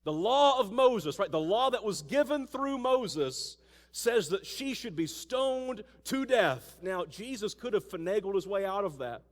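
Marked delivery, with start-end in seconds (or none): 0.0-6.8 accusing religious leaders. Acted. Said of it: "And they say".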